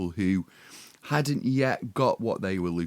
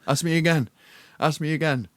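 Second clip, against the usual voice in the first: coy hint; 5 semitones higher than usual. Retold or imitated. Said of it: "looking coyly over his shoulder as if go".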